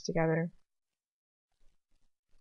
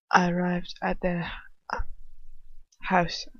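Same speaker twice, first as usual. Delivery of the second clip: calm controlled voice. A narrator's reading. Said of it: "perfectly controlled voice".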